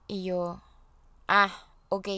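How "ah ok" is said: curt, louder "Ah, ok" with retold irritation; a clipped, sulky okay that shows she's mad; mock annoyed. Answering her husband who is leaving, a mock annoyed okay. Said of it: "pero súper enojada".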